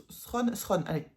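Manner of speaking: English title with a French accent; halting tries at English in a French accent; rough French-accented English. Real, not acted. Apologising to viewers before attempting the book title, French-accented English. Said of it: "mon accent de, anglais de brin".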